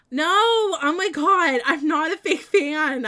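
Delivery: high, slow, outraged protest; loud protest. Real, not acted. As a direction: shout it down, mock-outraged. Defends against chat teasing.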